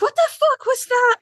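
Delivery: high, shocked cry of disbelief; half-laughing what-the-hell reaction; mock outrage. Fans reacting to a shocking episode, mock outraged.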